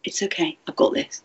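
calm your own nerves gently; soothing self-talk. Pretend. Teacher soothing their own nervous system, soft and reassuring. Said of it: "You're saying".

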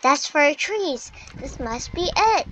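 loud, eager discovery; excited. Real, not acted. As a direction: realize it and get loud. Discovers the four trees.

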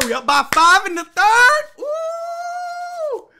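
high loud sung ooh; excited. Real, not acted. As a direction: croon with glee.

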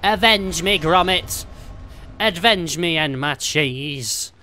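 overacted death scene. Dying plea, mock death scene.

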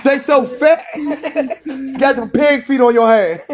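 laughing through the insult; mocking laugh. Real, not acted. Man laughs at woman's hands on stream, mocking laughter. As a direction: cackle as you mock.

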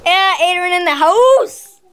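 hype-man announcement. Acted. Brother announcing himself to the vlog camera, slow hype call. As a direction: announce yourself like a party entrance. Brother hypes his own arrival.

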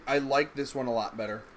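ordinary delivery

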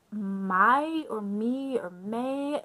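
slow, drawn-out attempts at Mai or Mi or May; unsure pronunciation. Real, not acted. Reviewer guessing at a Vietnamese name, Mai or Mi or May said slowly and unsurely. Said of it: "I don't know how to pronounce it".

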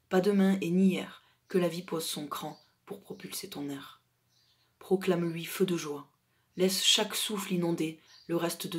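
measured poem reading with emphatic phrase openings; heartfelt spoken poetry, punching key words; poem recitation. Acted. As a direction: recite in short, separated phrases, letting each ending fall. Reads own poem aloud.

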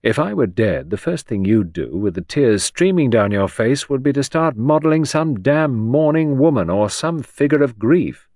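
bitter, rising, forceful accusation; sharp with pain. A narrator's reading. Remembered dying-thought jibe at sculptor, sharp with pain. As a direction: drive through it in pained reproach. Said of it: "his voice sharp with pain".

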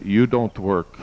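a light Korean accent imitating the pastor; quoting God's words to Cho in a mild Korean accent. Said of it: "He said this in a Korean accent".

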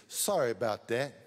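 lightly voiced pilot, offhand Sorry about that with a small rise; casual pilot apology. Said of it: "the pilot come on there and said".

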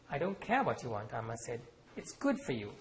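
measured author reading with voiced characters; story reading. A narrator's reading. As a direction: read the scene aloud, letting the characters speak. Author reads novel aloud.

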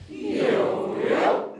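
loud high swoop up and down; swooping yo-yo pitch. Shown as a demonstration. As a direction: let the voice drop and spring back. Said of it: "yo-yo our voice".

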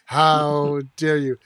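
slow, drawn-out mock affront; mock indignation. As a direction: stretch it out as if offended. Repeats the mock offence slowly.

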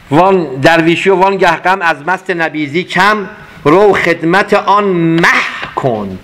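slow, measured reading of a verse; poem recitation. Acted. Teacher reciting Rumi to the class, slow and measured. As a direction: lean into each word of the poem.

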